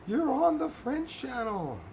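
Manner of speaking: high, slow, frantic friend on the phone; friend flipping out. Retold or imitated. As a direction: imitate the panicked friend, drawn out. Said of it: "one of my friends saying".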